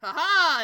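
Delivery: hammed-up villainous "ha ha"; mock triumphant "ha ha". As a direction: crow it like a gunslinger drawing. Acting Lily drawing her guns.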